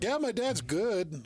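lightly acted, slow upbeat answer; Patrick Mahomes. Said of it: "He's like".

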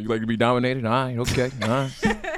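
lightly voiced movie tough-guy swagger; Denzel. Comic riffing on being a dominatrix, light swaggering impression. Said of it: "who I hit the Denzel when she said that".

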